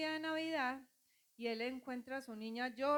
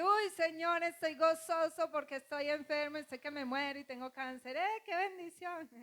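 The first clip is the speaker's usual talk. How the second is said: mock overjoyed; 4 semitones higher than usual. Preacher mocking false joy over illness, hammed-up gushing. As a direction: gush with fake holy joy, near a cry. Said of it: "No es decir".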